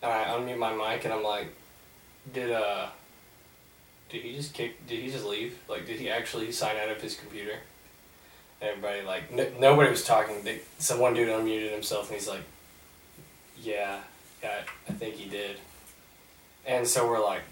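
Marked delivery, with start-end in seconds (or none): 2.3-7.6 softly acted, hesitant asking; tentative question. Student unmuting to ask the silent class, tentative and soft. 13.6-15.6 low, soft imitation of a classmate; hesitant reply. Lone student unmuting to answer classmates, quietly hesitant.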